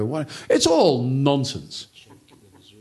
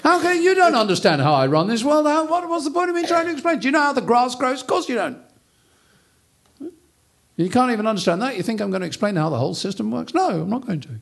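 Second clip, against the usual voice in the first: much higher, lordly and dismissive; voice from heaven; 10 semitones higher, faster than usual. Retold or imitated. God answering Job from the storm, lordly and dismissive. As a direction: boom down at Job as an impatient God. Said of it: "a voice from heaven says".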